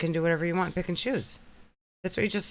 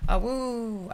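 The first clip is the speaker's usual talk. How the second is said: slow, high little wolf howl; howling like a wolf pup; 7 semitones higher than usual. Pretend. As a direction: give a playful pup howl. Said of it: "Leanda wants to know if she can have an awoo".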